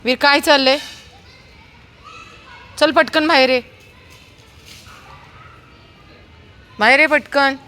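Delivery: high, loud stern call. Real, not acted. Mother calling her son out of the bushes, loud stern call. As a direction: order him out at once.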